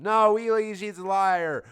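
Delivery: high, loud warning; mock urgent. Marissa warning Wheatley, loud hammy high cry.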